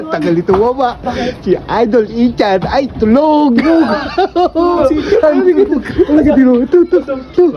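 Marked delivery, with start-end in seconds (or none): 1.4-7.4 laughing. Real, not acted. Laughing at sleeping friend.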